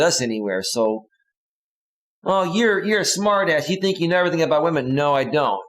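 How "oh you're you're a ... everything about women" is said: put-on higher, fast scoffing girlfriend voice; lightly voiced mocking girlfriend; sarcastic girlfriend. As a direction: scoff at him in her voice. Voicing the angry girlfriend.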